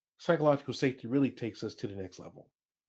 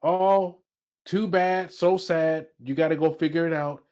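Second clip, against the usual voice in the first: dismissive brush-off; 4 dB louder than usual. Shown as a demonstration. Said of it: "It doesn't sound like".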